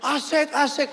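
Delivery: high-pitched imitation of a thrilled wife; acted-out squeal of delight; mock cheering. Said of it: "Turun dia teriak-teriak".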